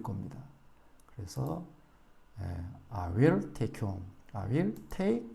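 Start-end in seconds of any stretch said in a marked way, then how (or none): 2.9-4.0 I will take you home, slow, take and home long and strong; slow model sentence for students; stress on take and home. Shown as a demonstration. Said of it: "강하고 길게". 4.3-5.3 I will take, slow, take long and strong; I will quick, then hold take; slow demo stressing take. Shown as a demonstration. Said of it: "강하고 길게".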